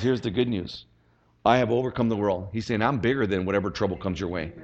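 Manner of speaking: low, softened, assured voice; calm reassurance. Retold or imitated. Preacher voicing Jesus giving good news, reassuring. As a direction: drop low and comfort them with quiet confidence.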